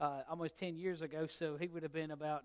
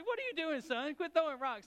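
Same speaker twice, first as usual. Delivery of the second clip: loud, much higher stern yell; scolding shout; 11 semitones higher, 7 dB louder than usual. Retold or imitated. Father yelling at his son to quit throwing rocks, loud scolding. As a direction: stop the kid cold with a sharp shout.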